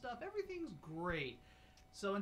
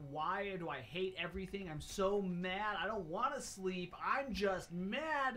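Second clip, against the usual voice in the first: slow, drawn-out pretend anger, building louder; mock toddler tantrum; 3 semitones higher, 3 dB louder than usual. Dad imitates his cranky daughter fighting sleep, mock mad. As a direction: imitate an overtired kid getting madder.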